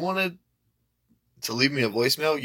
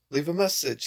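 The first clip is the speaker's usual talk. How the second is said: voicemail greeting; 4 semitones higher than usual. Retold or imitated. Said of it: "Is it".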